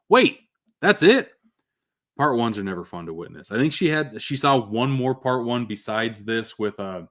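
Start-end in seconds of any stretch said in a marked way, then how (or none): 0.1-1.3 daughter's high, loud disbelieving shout; imitated shout. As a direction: shout it like a stunned kid at the credits. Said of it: "she simply shouted".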